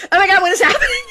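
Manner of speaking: loud, high shocked exclamation through laughter; laughing mock astonishment; stunned co-star. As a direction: imitate someone thrown by what she sees. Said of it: "stops in her tracks".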